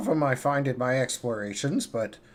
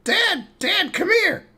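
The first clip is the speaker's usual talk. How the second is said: calling out; 5 dB louder than usual. Acted. Kashan calling his frog dad.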